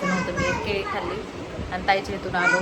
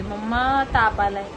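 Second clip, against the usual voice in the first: put-on whiny child. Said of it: "मला पण आता मग अशी अशी करत होती".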